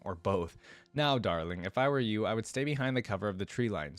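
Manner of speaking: even storybook narration with lightly acted lines; first-person story narration. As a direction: read it as the heroine's own tale. Reads first-person story aloud.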